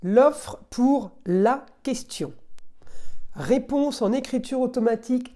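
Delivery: slow, weighty announcement; each word slowly set out. Real, not acted. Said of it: "Donc écoutez bien".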